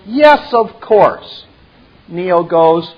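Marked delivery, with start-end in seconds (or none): 0.1-1.5 slow, louder, lofty agreement; Merovian voice. Acted. Merovian brushes off Neo's refusal, slow lofty tone. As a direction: draw it out like a condescending host. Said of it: "Merovian goes".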